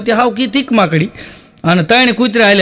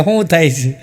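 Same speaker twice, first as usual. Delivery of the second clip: put-on old doctor; 5 semitones lower than usual. Old doctor squinting at patient.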